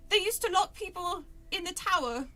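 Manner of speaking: put-on amateur London accent, high at the start; British character voice. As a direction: fake British storybook dialogue. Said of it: "do the voices at, in British".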